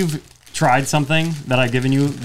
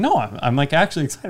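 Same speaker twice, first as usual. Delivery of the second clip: normal talking voice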